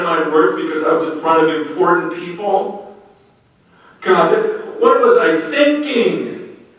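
retold prayer swelling with remorse; building repentant plea.

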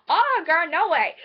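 loud, sassy refusal as Legolas; mock-indignant and loud. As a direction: refuse with playful sass. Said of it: "And Legolas is like".

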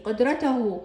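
قدرته said qudratahu, ending tahu; voweled h ending. Shown as a demonstration. Teacher showing the constant h, قدرته ending in tahu. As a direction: end قدرته on ta-hu. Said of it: "فهنا لفظتها هاء".

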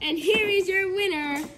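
excited ringside wrestling commentary; play-by-play commentary. Acted. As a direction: call the match live, hyped up.

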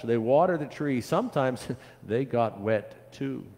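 put-on lively, rhythmic listing for children; storybook read-aloud. A narrator's reading. Pastor reads of children tending a tree, lively storytelling. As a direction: read it as an unfolding tale.

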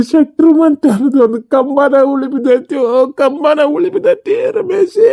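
weeping father; tearful lament. Acted. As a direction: lament the ruined household through tears. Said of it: "ಅಪ್ಪಾಜಿನೂ ಅಳಕತ್ತಾರ".

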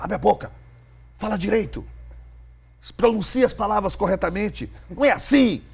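sharp, high scolding voice. Retold or imitated. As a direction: scold a clumsy young announcer.

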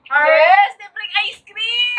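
excited. Real, not acted. Cheering over the ice cream prize.

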